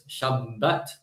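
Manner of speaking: "Shabbat" with held b, shorter final vowel; Sephardi doubled b. Shown as a demonstration. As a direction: say "Shabbat" as shab-BAT, lingering on the b. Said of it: "they would also double the bit".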